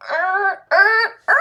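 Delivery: high strained "errr" noises; short, high grunts of resistance; disgusted groan. Acted. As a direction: groan in protest, high and tight. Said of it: "you're gonna feel like".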